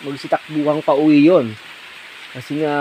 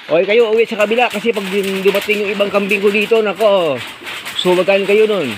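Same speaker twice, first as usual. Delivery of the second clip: calling out to goats; 5 semitones higher than usual. Real, not acted. (malakas na pagtawag sa mga kambing)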